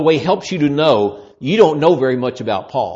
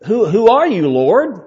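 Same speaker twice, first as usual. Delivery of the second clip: startled Paul; 6 semitones higher, slower than usual. Acted. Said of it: "And he goes".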